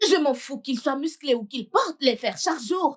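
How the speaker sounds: sobbing out his fury, voice cracking; crying angry shout. Acted. Furious son shouting through sobs at his mother. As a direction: rage and tears together, half shouting.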